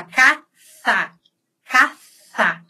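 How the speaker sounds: "caça" with a th sound for ç; tongue between the teeth on "caça", slowly split; Castilian ceceo. Shown as a demonstration. Teacher showing Spain's pronunciation, tongue between the teeth. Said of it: "A língua é entre os dentes".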